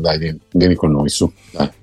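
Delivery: soothing nurse. Retold or imitated. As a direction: coax a patient along gently. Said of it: "arrivano gli infermieri e dicono".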